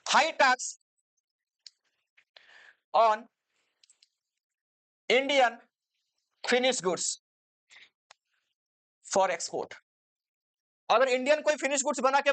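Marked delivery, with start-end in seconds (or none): 0.1-9.7 word by word with long pauses; measured chunks, pausing to write; dictation. Real, not acted. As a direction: dictate notes for students to copy. Dictating notes while writing them out.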